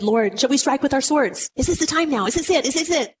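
mildly urgent questions, pitch lifting as they repeat; eager disciples. Acted. Disciples ask Jesus whether to strike, eager and urgent.

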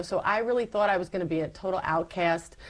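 ordinary talk

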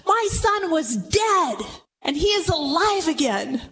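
father marvelling that his son lives; joyful proclamation. Acted. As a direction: savour the miracle of it.

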